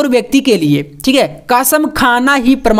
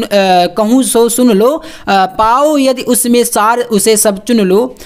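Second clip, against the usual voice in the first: measured, deliberate verse reading; slow classroom poetry reading; poem recitation; slower than usual. Acted. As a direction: read the verse out slowly, phrase by phrase. Reads the poem passage aloud.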